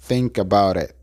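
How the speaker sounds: "think about it" said as one linked word; words joined. Shown as a demonstration. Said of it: "se unen y se pronuncia". ("think about it" pronunciado como una palabra)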